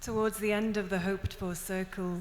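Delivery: steady, measured recital of a poem; poem reading. Acted. Poet reading her Welsh and English poem to the audience, recital voice.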